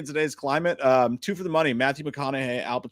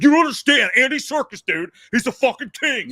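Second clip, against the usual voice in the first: high, loud mock outrage; arguing film fan; 11 semitones higher, 7 dB louder than usual. Co-host mimicking fans defending Andy Serkis, high mock-indignant voice. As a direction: defend your idol as an indignant fanboy. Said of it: "They will argue with you".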